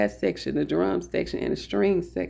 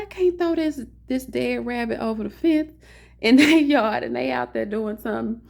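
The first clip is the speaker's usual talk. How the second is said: panicky protest; 5 semitones higher than usual. Retold or imitated. Panicking over dead rabbit.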